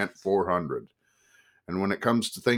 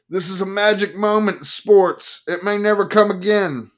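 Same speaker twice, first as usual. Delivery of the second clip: loud, much higher, self-important sportswriter; grand drunk pronouncement; 13 semitones higher, 9 dB louder than usual. Acted. Drunk Life man proclaiming the magic moment to the bar, loud and high. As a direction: proclaim it like a sloshed prophet.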